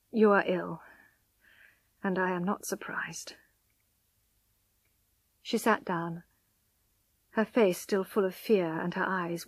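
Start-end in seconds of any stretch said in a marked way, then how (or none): 0.1-3.4 gentle. A narrator's reading. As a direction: say it gently, fading softer. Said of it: "he said gently".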